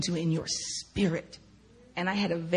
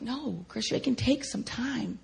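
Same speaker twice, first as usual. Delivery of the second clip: tender, patient reassurance; kindly, unhurried comfort; gentle and loving. Retold or imitated. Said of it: "just so gentle and loving".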